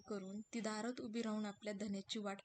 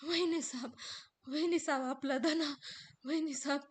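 halting, raised words that won't come; stammering servant; 4 semitones higher, 6 dB louder than usual. Acted. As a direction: stumble over bad news. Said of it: "तो अडखळत अडखळत बोलायचा प्रयत्न करू लागतो". (वाईट बातमी सांगताना अडखळणारा रामू)

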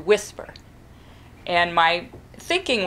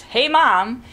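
higher, louder call to mom; child bursting out; 5 semitones higher, 4 dB louder than usual. Retold or imitated. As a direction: imitate a child forgetting to whisper. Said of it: "burst out with his favorite phrases".

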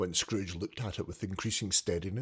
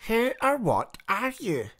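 put-on high, louder demanding old man; 11 semitones higher, 4 dB louder than usual. Scrooge confronting the ghost, high loud demand. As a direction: demand it of the spirit. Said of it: "Scrooge demanded".

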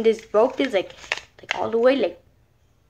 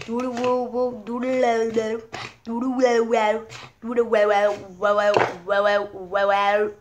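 tongue talk. Retold or imitated. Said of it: "tongue talk".

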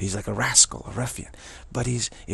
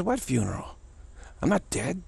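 indignant Trump; 7 semitones higher than usual. Retold or imitated. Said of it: "Trump says, comes in and says".

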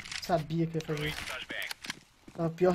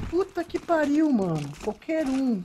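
drawn-out, higher-pitched swearing; exasperated gamer complaint; exasperated cursing; 5 semitones higher, slower than usual. Real, not acted. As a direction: curse slowly in frustration after losing. Still cursing the lagging player.

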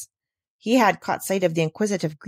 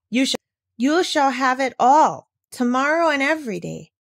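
eager; 5 semitones higher than usual. Acted. Heidi eager to agree.

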